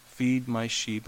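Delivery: slow, deliberate repeat of Feed my sheep. Acted. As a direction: draw each word out firmly. Jesus repeats the commission.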